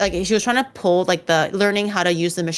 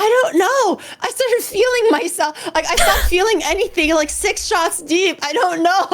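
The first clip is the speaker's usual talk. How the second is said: dazed mock friend; 10 semitones higher than usual. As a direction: play the caffeine-dazed friend. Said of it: "He was like".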